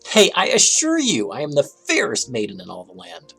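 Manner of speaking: fake princess voice. Dragon pretending to be princess.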